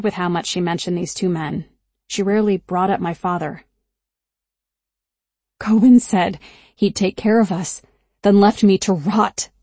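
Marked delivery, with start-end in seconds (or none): 5.6-9.5 hoarse, worn-out voice; voice almost gone. Acted. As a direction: rasp it out, voice failing. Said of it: "Her voice was almost gone".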